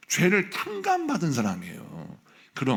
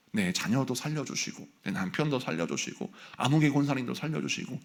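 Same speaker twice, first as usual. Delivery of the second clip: humble prayer. Shown as a demonstration. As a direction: pray it gently for those who hurt you. Models a prayer.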